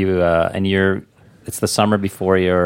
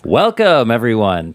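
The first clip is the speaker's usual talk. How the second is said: bright welcome; 2 semitones higher than usual. Shown as a demonstration. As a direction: lift it up, no fry. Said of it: "Here, take two".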